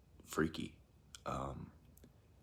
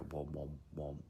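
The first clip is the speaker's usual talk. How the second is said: lightly imitated throb, trailing softer; subwoofer imitation; 5 dB quieter than usual. Trying to explain the strange noise, subwoofer imitation. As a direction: mimic a pulsing noise, letting it fade. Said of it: "like a deep-pitched voice mixed with".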